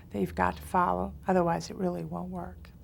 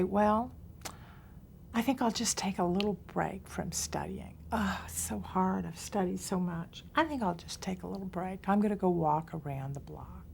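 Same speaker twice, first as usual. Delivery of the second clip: whiny excuse. Retold or imitated. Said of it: "Sometimes people say".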